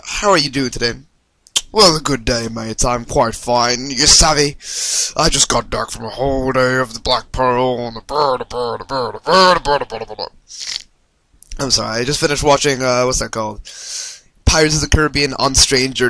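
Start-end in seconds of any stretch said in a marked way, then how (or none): 1.7-10.3 lightly voiced movie pirate captain; Jack Wheelbarrow. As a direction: play a silly pirate twin, ending in babble. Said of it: "Captain, um, Jack Wheelbarrow".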